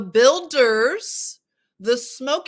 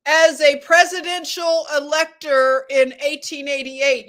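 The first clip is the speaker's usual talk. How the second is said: a bit higher and louder, declaiming; voice goes up; 3 semitones higher, 6 dB louder than usual. Shown as a demonstration. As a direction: lift the voice and read it out loud. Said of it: "how high my voice goes up".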